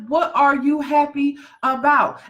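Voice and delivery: slow, high, shouted what are you happy about; slow and shouting at them; forceful challenge. Acted. Challenging unhappy listeners, slow and shouting.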